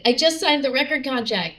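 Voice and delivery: bright, high announcement of big news; excited. Retold or imitated. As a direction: blurt out the good news. Telling Johnny the news.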